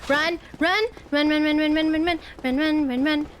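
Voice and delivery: urgent chant of run while fleeing; being chased. Real, not acted. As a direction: hurry yourself along. Fleeing enemies in game.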